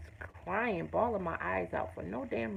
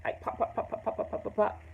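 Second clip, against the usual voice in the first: mock popping; 4 semitones higher than usual. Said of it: "pop rocks going off".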